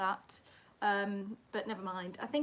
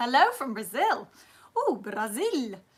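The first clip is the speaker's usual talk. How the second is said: clumsy, bad put-on Brazilian accent; 3 semitones higher, 8 dB louder than usual. Speaker greeting a viewer from Brazil: bad Brazilian accent. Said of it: "That was a really bad accent".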